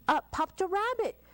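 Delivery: bright jump up on the rabbit; surprised. A narrator's reading. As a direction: pop the line up with surprise. Sudden story surprise.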